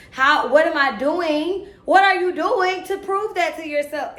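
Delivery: high, loud demanding questions; self-challenge. Real, not acted. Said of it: "this is me talking to myself".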